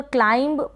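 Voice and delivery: क्लाइंब with an audible b at the end; wrong sounded B. Shown as a demonstration. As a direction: say क्लाइंब, releasing a b after the m. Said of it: "पढ़ते हैं तो गलत pronunciation होता है".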